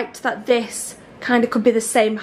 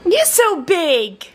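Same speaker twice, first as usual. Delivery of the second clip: high, stretched-out coo; 5 semitones higher, much slower than usual. Real, not acted. Admiring little one in the big bed, slow cooing.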